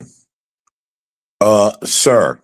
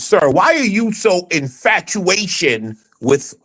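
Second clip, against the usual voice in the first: imitating J P; 4 semitones higher, slower than usual. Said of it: "he's doing it like J P".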